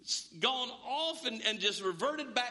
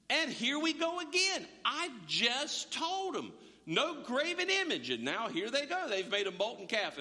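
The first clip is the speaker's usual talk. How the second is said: exasperated God; 5 semitones higher than usual. Retold or imitated. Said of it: "he's like".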